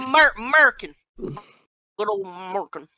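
hammed-up American accent; mock American accent. Answering friends about having an accent, mock American. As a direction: lean into a good-old-American accent. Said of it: "I'm American".

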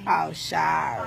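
low, slow, soft apology; chastened apology. Real, not acted. Told to be quiet for phone call, hushed apology. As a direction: drop right down and apologize slowly.

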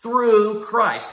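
"Christ" punched as the key word; stress on "Christ". Shown as a demonstration. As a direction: land firmly on "Christ". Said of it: "Emphasize Christ".

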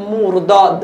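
"মুরদাদ" with short u in the first syllable; Persian word demo. Shown as a demonstration. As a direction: say "মুরদাদ" as a model word, falling at the end. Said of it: "এই উচ্চারণটা হচ্ছে কিভাবে".

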